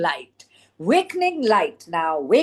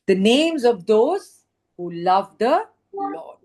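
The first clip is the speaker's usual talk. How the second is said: angel's voice read. Shown as a demonstration. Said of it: "the angel is saying".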